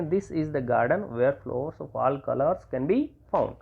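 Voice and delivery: very slow, word by word; slow, spaced dictation of the sentence. Shown as a demonstration. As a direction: dictate it slowly for students to write. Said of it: "teacher dictating example sentence".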